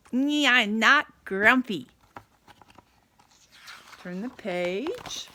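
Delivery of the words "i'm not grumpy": insisting through a forced smile, slow and a little louder. Acted. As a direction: force the words out past a fake smile. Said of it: "So Jim put on a smile".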